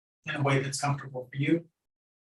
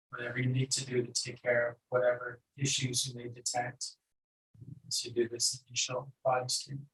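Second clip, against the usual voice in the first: calm meditation guide with long pauses; unhurried, even meditation instruction; guided meditation. Acted. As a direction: guide them gently inward, leaving long silences.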